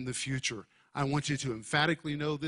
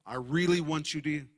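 mild imitation of Paul raising his voice; emphatic raised voice. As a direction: stretch it out slowly and insistently, a little lifted. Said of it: "Paul is lifting his voice now and is screaming".

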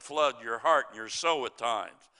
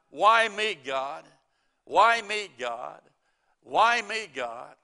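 anguished cry to heaven, loud on each why me; 2 semitones higher, 6 dB louder, slower than usual. Retold or imitated. Stranded man crying out to God, loud anguished cry. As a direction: wail it up at the sky. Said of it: "he cried out".

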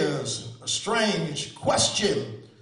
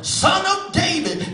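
retold shout; 9 semitones higher, 6 dB louder than usual. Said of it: "they were shouting".

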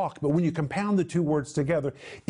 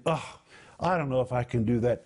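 low, quick grumble of self-doubt; groan, then voice a discouraged listener's doubt; doubtful groan; 4 semitones lower, faster than usual. Acted. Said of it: "I can just hear you saying".

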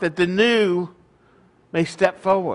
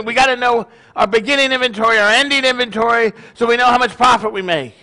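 higher, hurried mock explanation; impatient explaining; 5 semitones higher, 4 dB louder, faster than usual. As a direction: play a busy son justifying himself. Joke son explains himself to father.

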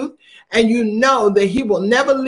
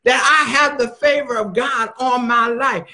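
bold declaration. Shown as a demonstration. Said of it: "Learn how to do it for yourself and say".

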